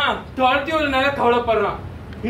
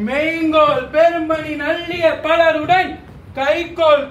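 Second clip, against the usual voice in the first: classical verse recitation. Acted. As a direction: declaim old Tamil poetry with measured weight.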